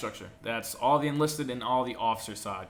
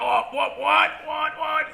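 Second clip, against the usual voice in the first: much higher, louder flustered stammer; panicked recruit; 9 dB louder, slower than usual. Retold or imitated. Recruit blanking on his general order, panicked stammer. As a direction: stammer like a recruit caught off guard.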